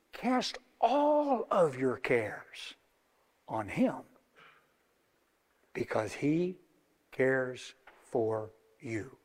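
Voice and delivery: slow and soft; slow, quiet, reassuring; gentle exhortation. Real, not acted. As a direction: coax them tenderly. Tender exhortation.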